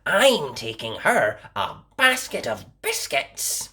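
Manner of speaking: a hint of a small girl; just touch the girl's voice; lightly voiced little girl. A narrator's reading. Girl explaining her errand to the wolf, lightly voiced. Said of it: "said Little Red Riding Hood".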